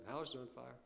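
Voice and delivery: soft, unexcited deadpan; cool, calm. Acted. Brother repeating the warning to no attention, coolly. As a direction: say it without any hint of anxiety. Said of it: "he said coolly, calmly, without any hint of anxiety".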